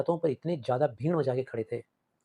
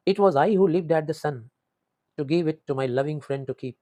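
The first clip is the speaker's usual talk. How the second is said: drawn out, slow, heavy words; slow poem recitation; 3 dB louder, much slower than usual. Shown as a demonstration. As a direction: read the verse slowly and with regret. Teacher reciting the poem lines. (धीमा, भावुक कविता पाठ)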